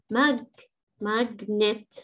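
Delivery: "ماج" alone, then "ماجنت" in two parts; syllable by syllable. Shown as a demonstration. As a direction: break "ماجنت" after "ماج". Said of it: "هذه مقطعين". (نطق "ماجنت" مقطعًا مقطعًا)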